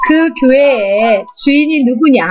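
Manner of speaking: slow, calm questioning God voice. Retold or imitated. God calmly questioning his upset daughter, slow. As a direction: ask it gently, like a wise father. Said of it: "뭐라고 위로하시냐면은".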